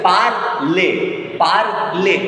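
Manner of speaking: parler broken as par, lay; two separate beats, PAR and LAY in parler; split into syllables. Shown as a demonstration. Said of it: "division of words in syllables".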